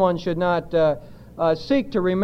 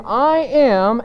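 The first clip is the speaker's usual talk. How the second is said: "I am" pressed firmly and set apart; emphatic I AM. Shown as a demonstration. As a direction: hit "I am" with full weight. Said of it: "and it's emphatic".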